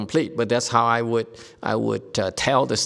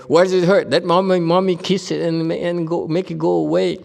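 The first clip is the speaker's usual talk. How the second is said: high, louder mommy voice; cooing mommy; 7 semitones higher, 4 dB louder than usual. Retold or imitated. Teacher voicing a mother soothing her hurt child, high. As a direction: coo like a fussing mother. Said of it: "You know".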